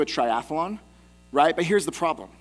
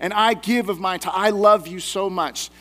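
lightly acted proud prayer, a bit louder; boastful Pharisee; 5 dB louder than usual. Pharisee thanking God he's not a tax collector, mildly boastful. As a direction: pray loudly, a touch showy and self-satisfied. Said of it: "And the Pharisee says".

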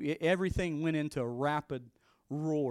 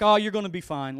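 wife reassuring; 3 semitones higher, 11 dB louder than usual. Retold or imitated. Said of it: "she's like".

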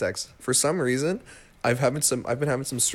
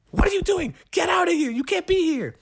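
much higher mock scold from the owner; shrill it out like a cross park owner. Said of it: "She just goes like".

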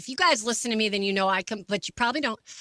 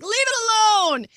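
husband's brush-off; 12 semitones higher, 6 dB louder, faster than usual. Retold or imitated. Husband telling her to ignore it.

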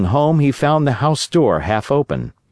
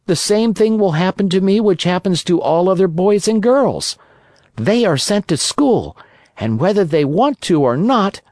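higher, lightly voiced brat brushing off advice; cheeky puppet boy; 7 semitones higher than usual. Pinocchio scoffing at the cricket's warning, cheeky higher voice.

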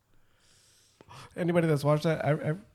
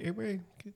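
horn voice; 9 semitones higher, 13 dB quieter than usual. Pretend. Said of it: "Like the fern".

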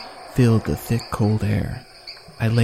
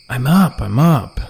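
sleepy moan; 3 semitones higher, 5 dB louder, slower than usual. A narrator's reading. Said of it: "he moaned".

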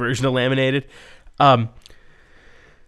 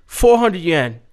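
a hint of a street seller, slightly higher; mock vendor pitch; 3 semitones higher than usual. Steve pitching a price to the masseuse, lightly hammed-up vendor. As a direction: sell it like a hawker, tongue in cheek.

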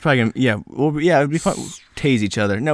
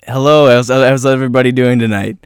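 louder emcee greeting to crowd; stand-up comic; 7 dB louder than usual. Pretend. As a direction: open like a club comic. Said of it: "you'll be like this".

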